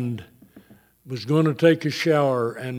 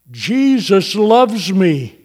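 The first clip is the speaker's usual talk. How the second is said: slow, higher, as if just discovering it; retold revelation; 4 semitones higher, 4 dB louder, slower than usual. Husband quoting his dying wife, slow wonder of revelation. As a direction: say it slowly with dawning wonder. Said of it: "like it was a revelation".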